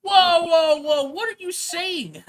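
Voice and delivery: high, very loud, slowing protest; alarmed sidekick. Acted. Sidekick cutting off the client's confession, loud and alarmed. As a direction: stop him mid-sentence.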